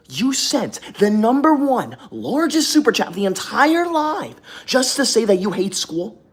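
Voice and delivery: high, incredulous rant that slows at the end; outraged disbelief. Real, not acted. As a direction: still reeling, demand how he could. Outraged at a viewer's super chat.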